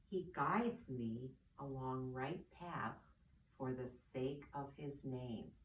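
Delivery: measured, reverent reading with long pauses; slow scripture reading. Acted. Teacher reads the psalm to children, slowly and reverently. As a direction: read the psalm slowly and gently. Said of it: "I'm gonna read it slowly".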